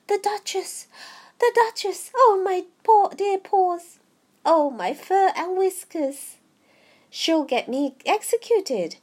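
high, loud storybook rabbit in a fluster; fretting White Rabbit. A narrator's reading. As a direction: exclaim in alarm, high and loud. Fretting rabbit fears execution.

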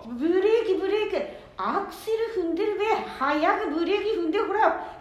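panicked passenger yelling brake; urgent yelling. Acted. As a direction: shout at him to hit the brake. Grandma yells to brake.

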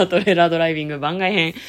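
title read through laughter; laughing title call. Real, not acted. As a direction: laugh while announcing the show. (笑いながらタイトルコール)

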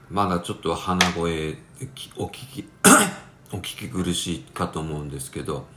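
real nasal, congested voice; stuffy nose. Real, not acted. Apologising to listeners for still sounding congested, nasal voice. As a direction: talk through a lingering stuffy nose.

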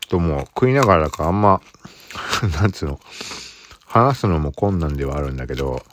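eating while talking, mouth full. Real, not acted. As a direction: speak through a mouthful of cracker. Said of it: "食いながらだから…話すのも困難".

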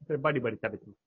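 chewing while talking; words round a crunchy bite; crunching fruit. Real, not acted. (噛みながら話す)

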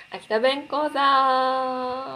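slow, drawn-out loud title call; announcer shout. Real, not acted. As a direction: announce it like a show segment. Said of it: "announces the Akita dialect lesson".

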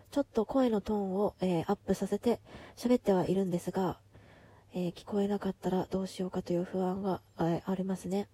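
マスクをしたまま話す; マスク越しのこもった声; マスク越し. Real, not acted. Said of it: "マスクをしながら喋っていて". (マスク越しの声)

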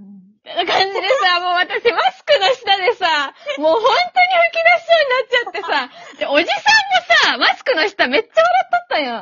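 talking through laughter, loud; giggling while telling it; stifled giggles. Real, not acted. Laughing while retelling embarrassment.

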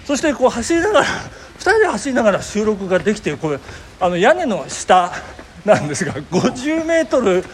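talking while jogging; while running. Real, not acted. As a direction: speak mid-run, between strides.

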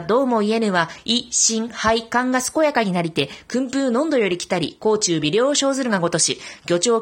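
formal, measured stage recitation; declaiming a classical recital. Shown as a demonstration. Reciting the Uirō-uri drill for radio listeners, steady declamation. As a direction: declaim the old peddler's pitch like a drill piece. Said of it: "では、いきます。".

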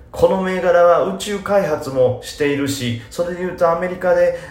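mock-careful analyst reading out a tip; polite investor tone. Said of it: "っていうよりも".

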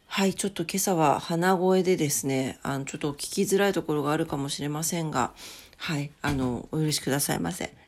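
stuffy nose; talking through a blocked nose; nasal voice. Real, not acted.

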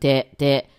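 「手」 stretched into a long "tee"; lengthened vowel. Shown as a demonstration. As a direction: hold the vowel of 「手」, firmly. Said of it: "伸びてますよね". (「手」を「てー」と伸ばす)

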